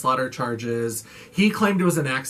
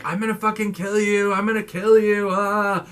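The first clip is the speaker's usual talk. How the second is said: high, raging repeated threat; yelled threat; 6 semitones higher than usual. Retold or imitated. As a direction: bellow it from behind a locked door. Heard yelling through the ceiling.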